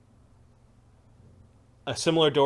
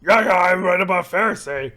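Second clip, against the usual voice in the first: creature voice; 7 semitones higher, 10 dB louder than usual. Acted.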